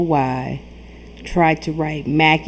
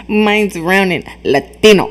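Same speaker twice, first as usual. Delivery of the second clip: mock Latino accent; 4 dB louder than usual. Friend mocking the streamer's line in a mock Latino accent. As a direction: parrot his line back in a jokey Latino accent. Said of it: "What accent was that?".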